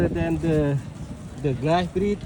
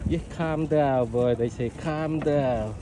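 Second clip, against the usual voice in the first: soothing; 3 semitones lower, slower than usual. Real, not acted. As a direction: talk him down gently and slowly. Father soothing scared kid.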